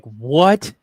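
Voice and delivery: high, loud incredulous what; retold disbelief. Dad stunned his nineties clothes are vintage, high and loud. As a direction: play your own shock at vintage meaning nineties. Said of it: "I'm like".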